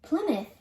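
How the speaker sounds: Plymouth as PLIM-uth; short i and weak ending in Plymouth; local pronunciation. Shown as a demonstration. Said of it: "How do you pronounce this town".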